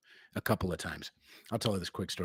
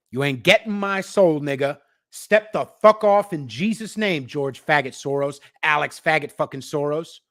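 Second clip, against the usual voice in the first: shouted defiance; 3 semitones higher, 4 dB louder than usual. Real, not acted. Ranting curse at Soros.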